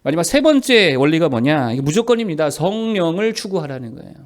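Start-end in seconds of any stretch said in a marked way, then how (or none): none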